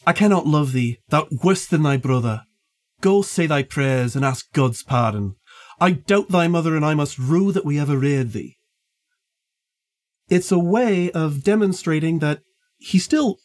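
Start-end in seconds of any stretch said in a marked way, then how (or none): 0.1-8.6 put-on light Yorkshire accent, old man scolding; a gentle hint of broad Yorkshire; understated Yorkshire old man. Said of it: "I'll do my best Yorkshire accent".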